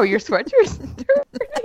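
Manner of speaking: slow laughing mocking echo; slow laughing sarcasm. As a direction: sneer his words back, slowly. Mocking husband's complaint.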